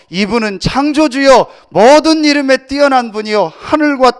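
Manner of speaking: loud, ringing pulpit proclamation; loud sermon climax; full-force preaching. Acted. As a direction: preach it out to the whole congregation.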